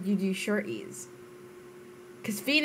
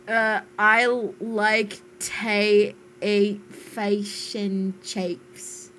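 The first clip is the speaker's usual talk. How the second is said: reading a Kiwi line; 5 dB louder, much slower than usual. Retold or imitated. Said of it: "That's what James just wrote".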